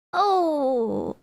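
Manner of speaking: hammed-up burst of recognition; sudden recognition. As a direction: shout the name as it comes back. Character remembers, calls the name.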